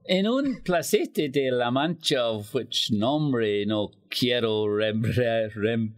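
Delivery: slow, halting read of mixed Spanish-English; playful slow recital of a Spanglish Quixote. Shown as a demonstration. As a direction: sound out the Spanglish carefully, stumbling. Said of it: "a slightly different. Uh, in Spanglish".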